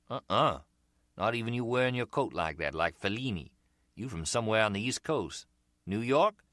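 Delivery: grin through it, busted and enjoying it; American street seller. Acted. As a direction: seller to Harry, cheerfully admitting the fake accent. Umbrella seller voiced.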